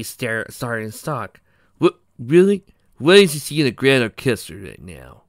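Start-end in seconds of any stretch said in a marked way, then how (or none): 1.8-5.2 surprised. Acted. Pokey stunned.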